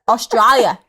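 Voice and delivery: put-on Aussie accent; name the country in an Australian accent; quick go at Aussie. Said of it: "do the accent of the name".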